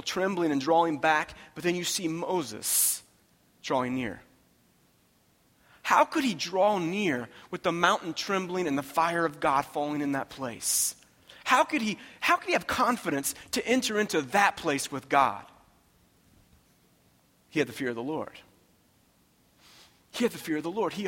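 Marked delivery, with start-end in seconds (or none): 5.8-15.4 raised rhetorical questioning; impassioned preaching. Real, not acted. Preacher asking how Moses could draw near, impassioned. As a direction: press the question on the congregation.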